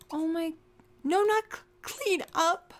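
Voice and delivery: high, urgent objection; panicked protest. Real, not acted. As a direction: blurt it out in alarm. Protesting the clean-up of character.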